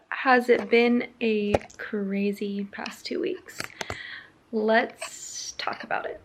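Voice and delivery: slow breathy whisper, no voice at all; whispered opening. Real, not acted. Vlogger greets viewers in a slow whisper. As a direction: lean in and whisper the question, slowly.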